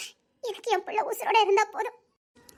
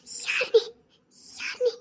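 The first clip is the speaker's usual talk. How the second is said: frightened sob; 3 semitones higher, much slower than usual. Acted. Terrified woman crying out.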